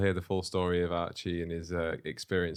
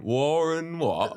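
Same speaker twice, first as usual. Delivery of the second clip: baffled phone repeat; 9 semitones higher, 4 dB louder, much slower than usual. Retold or imitated. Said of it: "a big part of the phone call was going".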